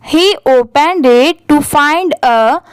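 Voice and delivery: very slow word-by-word model reading with pauses; slow paragraph reading. Shown as a demonstration. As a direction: read it out for learners, pausing between phrases. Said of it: "वहाँ पर थोड़ा सा रुकिए".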